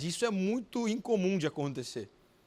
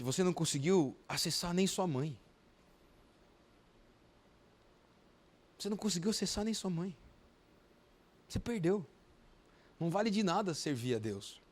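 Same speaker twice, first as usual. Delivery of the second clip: voice of Satan; 3 semitones lower, 5 dB quieter than usual. Retold or imitated. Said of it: "foi a voz do, do, de Satanás".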